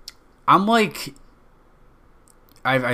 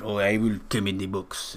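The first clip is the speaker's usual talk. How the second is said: lightly put-on French accent; a quick, rough French impersonation; mock French accent; 3 semitones lower, 3 dB quieter than usual. French guy asked into the box, mock French accent.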